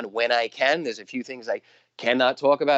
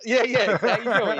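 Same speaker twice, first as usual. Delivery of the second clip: high, playful Brooklyn "How you doing?"; hamming up a Brooklyn greeting; Brooklyn accent; 9 semitones higher, slower than usual. Retold or imitated. New Yorker showing off his Brooklyn greeting, Brooklyn accent. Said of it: "the Brooklyn accent".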